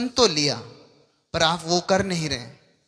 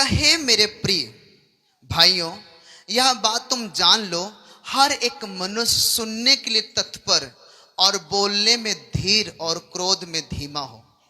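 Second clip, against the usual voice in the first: scripture reading; 2 semitones higher than usual. Real, not acted. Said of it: "मैं पढ़ता हूं, आप सब जन ध्यान से सुनो".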